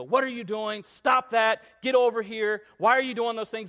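acted-out parent yelling at kids; snapping yell. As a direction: snap at the kids like a fed-up parent. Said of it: "and I yell".

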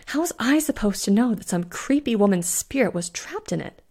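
defensive, a touch irritated; mild snap. Acted. Bellamy to Fiona, defending himself, mildly snappish. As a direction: push back at the blame. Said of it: "Bellamy snapped".

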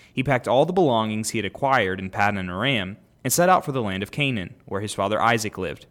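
measured, lifted Bible reading; podcast host reading Genesis aloud, clear scripture reading. Acted. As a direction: read the passage out to the listeners. Reads scripture aloud to listeners.

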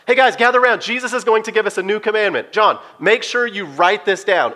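mock rallying cry to the group, slowing on write this down; excited shout. Peter calling the disciples to gather round, eager mock shout. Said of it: "I imagine Peter shouted".

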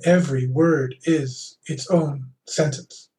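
slow, each word set apart; word-by-word delivery. Shown as a demonstration. Host describing Captain Kirk's speech, deliberate word-by-word. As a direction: give every word its own little sentence. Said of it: "Who doesn't like Captain Kirk?".

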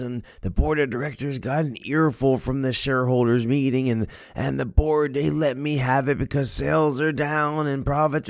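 a boss venting blame down the line, playfully; chewing out. Retold or imitated. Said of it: "the C E O just lets him have it".

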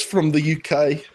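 the words "from the U K" in a put-on British accent; mock British accent. Co-host teasing Ed from the UK, still in a mock British accent. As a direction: finish the hammed-up British accent on "from the U K". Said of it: "that was horrible".

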